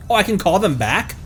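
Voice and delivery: ordinary delivery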